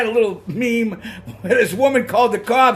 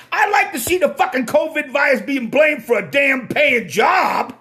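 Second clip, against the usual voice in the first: worked-up rant; 2 semitones higher than usual. Real, not acted. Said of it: "Sometimes I get a little worked up".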